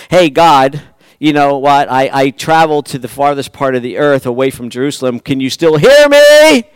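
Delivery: mock testing question. Preacher mocking a man testing God from afar, rising question. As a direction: tease God from far away.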